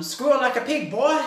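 high, loud mock hillbilly line; a hammed-up movie villain growl; Deliverance quote. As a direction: ham up the Deliverance threat. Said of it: "a bit like Deliverance".

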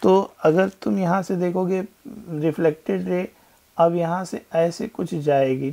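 ordinary talk, nothing marked

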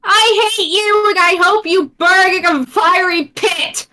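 damn them theatrically to a fiery pit; mock dramatic curse.

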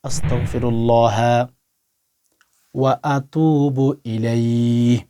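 slow, drawn-out Arabic recitation of ওয়া আতুবু ইলাইহি; a teacher showing the exact words syllable by syllable; careful recitation. Shown as a demonstration. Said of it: "screen লক্ষ্য করুন".

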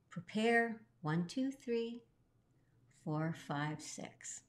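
slow count fading to a breath; counting out the steps. Shown as a demonstration. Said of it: "A natural turn is six changes of weight".

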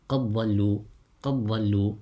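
قد ضلوا with no d heard, one doubled ض; idgham. Shown as a demonstration. Teacher shows students Warsh's recitation, idgham in قد ضلوا. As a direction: merge the dal of قد into the ض of ضلوا. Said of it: "you recite it with إدغام for Warsh".

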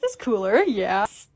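usual speaking voice

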